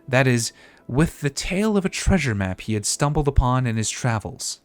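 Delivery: florid storyteller with lively pitch swings; theatrical quest-giver. Acted. Player voicing a treasure quest-giver's pitch, theatrical storytelling. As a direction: read it aloud like a grandiose adventurer pitching a treasure hunt. Reads quest text in character.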